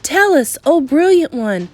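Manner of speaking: high, loud, eager witches begging their leader; fawning witch chorus. Acted.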